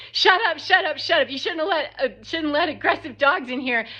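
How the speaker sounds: high-pitched imitation of her screaming; mock screaming. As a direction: screech it as her, without full volume. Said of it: "And she is screaming".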